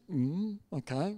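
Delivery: soft, slow acknowledgement; meek compliance. Retold or imitated. Pastor just listening to the visitor, soft and compliant. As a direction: murmur a mild, obedient okay.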